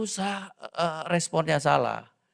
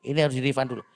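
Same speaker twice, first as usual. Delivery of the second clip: wife's quick retort; 4 dB louder, much faster than usual. Retold or imitated. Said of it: "istriku langsung".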